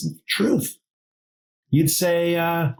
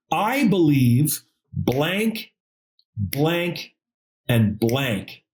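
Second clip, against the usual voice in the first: slow fill-in-the-blank; 3 semitones lower, much slower than usual. Shown as a demonstration. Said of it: "this is the sentence".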